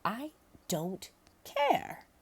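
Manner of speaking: high, slow, loud shout. Acted. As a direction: yell it back in annoyance. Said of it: "shouted Mister Bettelheim".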